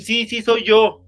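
slow, high and loud doll voice; doll's voice. Retold or imitated. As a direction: speak as the possessed doll. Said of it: "Como queriendo decir".

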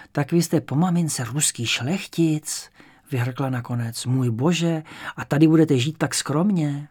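put-on a touch of an old woman impressed by nobility; elderly landlady. Old landlady hearing he is a Russian nobleman, mildly amazed.

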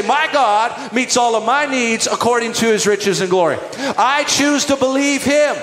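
loud, firm proclamation; confident faith declaration. Retold or imitated. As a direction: declare it with conviction. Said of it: "be in faith and say".

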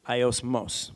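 "aiosmos" with the weight on the final "mos"; stress on last syllable. Shown as a demonstration. Preacher teaching the Greek word, "aiosmos" stressed at the end. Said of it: "The emphasis is on the last syllable".

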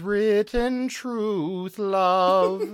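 slow, drawn-out mock love declaration; mock romantic Golem. The Golem swoons over the lady Golem, hammed-up and slow. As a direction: croon it like a lovestruck statue.

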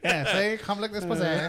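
put-on old-time gangster voice. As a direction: play a cartoon Chicago gangster. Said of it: "They don't talk like this".

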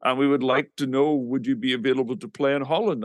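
lightly put-on Dutch accent, measured delivery; mock Dutch accent on the phone. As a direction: imitate a polite Dutch caller. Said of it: "this guy with a Dutch accent".

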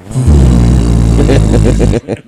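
long, loud buzzing engine drone; mimicked bomber drone. Player says mosquitoes sound like a B-17, imitated engine drone.

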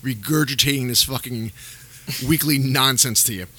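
half asleep and tired; sleepy. Real, not acted. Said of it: "I'm falling asleep".

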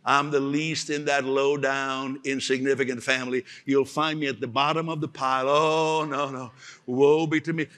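a touch of moaning self-pity; mock self-pitying prayer. Gideon bemoans his lowly family to God, mock self-pity. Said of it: "he was even praying".

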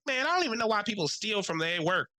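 mock gossiping clerk. Counter girl voiced in story.

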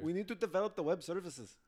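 put-on Indian accent; amateur Indian accent with a mixed European tinge. Shown as a demonstration. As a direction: try an Indian accent as an office techie. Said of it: "an Indian one".

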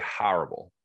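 "horrible" in an exaggerated regional vowel; exaggerated home pronunciation. Shown as a demonstration. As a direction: lean into the local vowel on "horrible". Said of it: "I'm gonna say it extra now".

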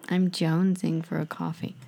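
voiced American "I'm jonesing for a coffee"; lightly American craving line; American accent. Shown as a demonstration. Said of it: "think of my American accent".

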